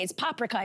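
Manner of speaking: paprika as PAH-pri-ka, Hungarian way; first-syllable stress. Retold or imitated. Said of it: "the emphasis is on the first syllable".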